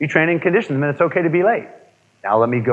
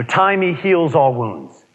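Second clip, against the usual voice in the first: "Timey heals all wounds" drawn out slowly; slow saying; much slower than usual. Retold or imitated. Quoting the folk saying to the audience, slow mock. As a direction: stretch the old saying out mockingly. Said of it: "somebody said to us".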